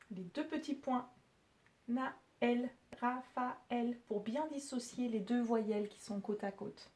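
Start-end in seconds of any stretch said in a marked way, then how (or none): none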